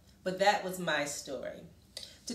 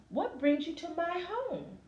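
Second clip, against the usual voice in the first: Amu's voice; 9 semitones higher than usual. Acted. Amu greets the little boy.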